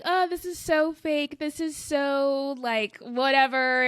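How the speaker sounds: high, slow, dismissive scoff at astrology; mocking scoff. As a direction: drag it out like an eye-roll. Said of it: "before I would be like".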